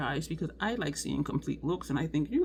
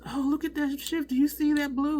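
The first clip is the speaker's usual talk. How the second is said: higher-pitched mock excitement; imitated video hype; 8 semitones higher than usual. Imitating makeup videos raving about the blue shift, mock excitement. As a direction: mimic an impressed video reviewer, pitched up. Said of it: "I hear in videos".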